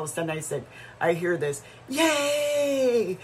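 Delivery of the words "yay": high, loud cheer of joy. Real, not acted. Child freed from swing, cheering.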